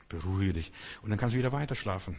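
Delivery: put-on low, soft hush to a baby; calm the crying child gently; soothing parent. Preacher as the heavenly father soothing a baby, softly.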